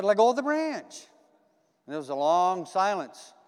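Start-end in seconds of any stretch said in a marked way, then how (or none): 0.0-1.1 raised, insistent command from above; the Lord calls down firmly to let go. Retold or imitated. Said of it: "He said".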